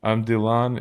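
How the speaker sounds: DYLAN said as "dih-LAHN"; Dylan stressed on an open LAHN; unusual name pronunciation. Retold or imitated. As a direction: imitate him introducing himself, DYLAN as "dih-LAHN". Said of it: "he was like".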